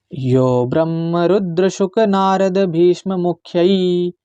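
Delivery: slow, careful Sanskrit verse recitation; measured shloka recitation. Shown as a demonstration. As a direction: chant each syllable slowly and clearly. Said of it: "इसका मैं उच्चारण सिखाऊंगा आपको".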